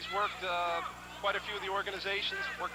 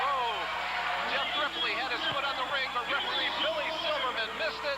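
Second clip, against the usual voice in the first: higher, excited play-by-play; wrestling commentator; 4 semitones higher than usual. Real, not acted. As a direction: keep the call high and eager.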